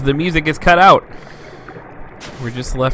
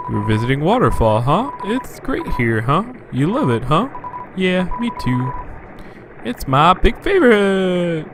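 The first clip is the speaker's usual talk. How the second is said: Norwal from Elf voice; 4 semitones higher than usual. Acted. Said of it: "Norwal from Elf voice".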